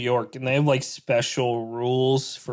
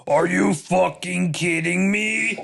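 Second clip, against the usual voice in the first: exasperated customer; 3 semitones higher, slower than usual. Pretend. Angry customer, slow.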